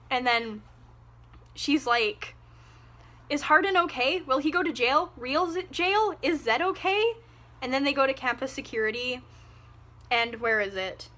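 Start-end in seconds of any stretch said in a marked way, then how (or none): 3.3-7.1 higher, fretful questions; mock worried Tessa. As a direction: fret in a high voice. Voicing Tessa panicking.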